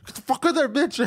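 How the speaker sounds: high, loud yell broken by laughter; cracking up while shouting it; laughing mock yell. Friend joins the neighbor bit, laughing mock yell.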